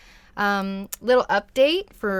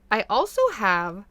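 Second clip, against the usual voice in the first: talking around a hair on the tongue; words caught on a stray hair; cat hair in mouth; 3 dB louder than usual. Real, not acted. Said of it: "sorry, I have a cat hair in my mouth".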